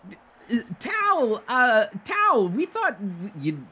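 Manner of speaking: high, goofy soldier voice, confident; confident twin brother. Acted. Otto greeting his little brother, high confident voice. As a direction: pipe it high with cheerful certainty. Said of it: "Otto is more confidently going".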